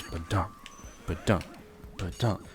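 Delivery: low, soft mimicked thudding; imitated coffin thuds. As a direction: voice the thumps, spaced by pauses. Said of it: "then he hears".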